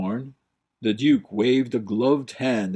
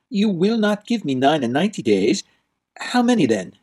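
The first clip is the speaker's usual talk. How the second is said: higher, louder, fast challenge; defiant young prince; 7 semitones higher, 4 dB louder, faster than usual. Acted. Prince turning on the stairs to challenge the Duke. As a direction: turn and confront him.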